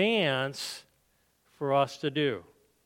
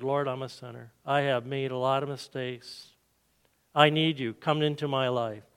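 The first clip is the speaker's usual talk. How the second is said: prayer. Acted. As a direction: pray it sincerely for the listeners. Leads sinner's prayer.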